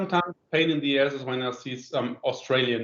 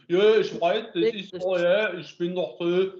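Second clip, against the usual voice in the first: put-on a light send-up of the Leipzig accent in German; mock Leipzig accent. Mocking to a friend how Leipzig people sound, Leipzig accent. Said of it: "very nice accent".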